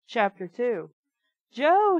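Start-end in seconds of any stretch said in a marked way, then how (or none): 1.5-2.0 higher, louder bellowed name; roar. A narrator's reading. McCall roaring at Joe from the stairs, a loud bellow. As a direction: bellow the name like an angry giant. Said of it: "he roared".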